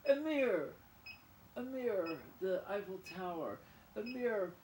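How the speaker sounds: high, loud excited calls; excited shout. Real, not acted. Goofing about with a French word, shouting excitedly. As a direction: shout it out giddily.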